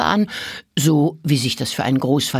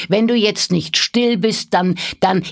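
annoyed grandfather; 6 semitones higher, 3 dB louder than usual. A narrator's reading. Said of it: "Da wurde der Großvater ärgerlich".

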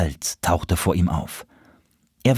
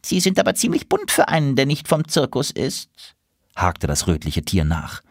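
much higher, fast chattering voice; fussy squirrel; 10 semitones higher than usual. A narrator's reading. Squirrel warning about the circus, fast and fussy. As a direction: rattle it off like a nervous squirrel.

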